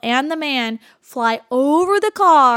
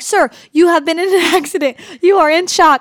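louder, higher robotic first-aid script; 6 semitones higher, 6 dB louder than usual. Retold or imitated. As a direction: recite it like a training video. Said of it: "totally super robotic".

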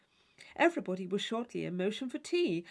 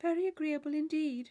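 stifling a yawn; 7 semitones higher than usual. Acted. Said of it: "hide a great yawn".

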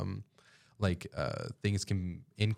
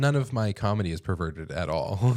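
sarcastic; 4 dB louder than usual. Acted. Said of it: "That was sarcasm".

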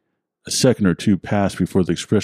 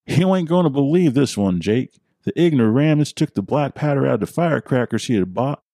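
put-on much higher old-timer gossiping; old man with accent; 7 semitones higher than usual. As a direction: relish the dumb story in a high folksy voice. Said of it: "it was his accent that caught my attention".

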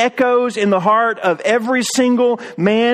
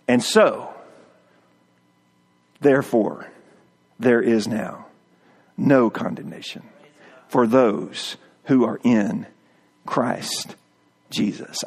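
hushed; 10 semitones lower, 5 dB quieter than usual. Acted. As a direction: drop low and soft, slowing down. Preacher drops into hushed delivery.

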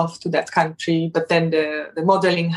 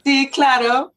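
lively Spanish greeting with a Spanish accent; 3 semitones higher than usual. Shown as a demonstration. Asked by the host, she shows off her Spanish accent. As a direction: chat in Spanish with a light Spanish lilt. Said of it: "could we hear a bit of that Spanish accent?".

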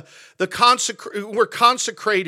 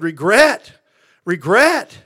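incredulous questioning; 4 dB louder, slower than usual. Retold or imitated. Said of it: "And somebody said".

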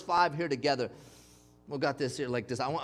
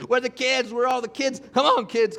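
urgent call; 7 semitones higher, 8 dB louder than usual. Retold or imitated. Calling kids during bear alarm.

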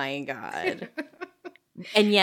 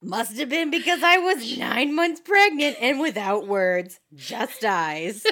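gleeful quote; 3 semitones higher than usual. Retold or imitated. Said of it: "repeating the quote with glee".

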